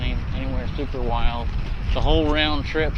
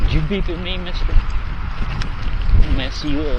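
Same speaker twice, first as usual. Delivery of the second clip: playfully threatening a driver; mock road rage; 4 dB louder, slower than usual. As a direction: fake tough guy at a beeping car. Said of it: "Road rage on a scooter".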